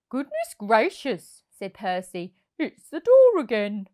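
goodness, not again; exasperated surprise. A narrator's reading. Percy exclaims.

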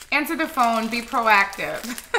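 loud, slow insistent appeal; emphatic plea. Real, not acted. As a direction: drive the advice home. Public service announcement to parents.

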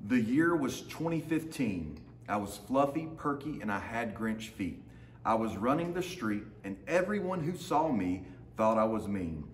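lively storybook reading in the dog's voice; reading to children. A narrator's reading. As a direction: read it like a picture book for a class. Teacher reads picture book aloud.

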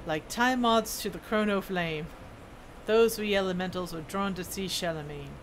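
lightly voiced dwarf smith, storytelling; dwarf smith character. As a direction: read it as an earnest old-world craftsman.

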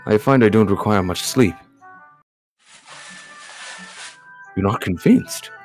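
lightly voiced, reassuring formal gentleman; courteous game character. Game character offering coffee to a companion, courteously. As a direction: play a polite host putting a guest at ease. Reads visual novel dialogue.

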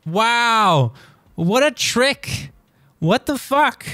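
loud, high-pitched disbelief; stunned outburst. Real, not acted. Quiz taker floored by a trick question, stunned. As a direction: cry out in amazement at being tricked.

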